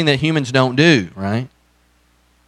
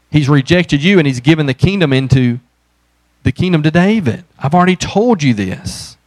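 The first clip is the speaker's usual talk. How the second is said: exasperated Samuel; 3 semitones higher, 4 dB louder than usual. Retold or imitated. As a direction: scold him like a prophet tired of repeating himself. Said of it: "tells Saul".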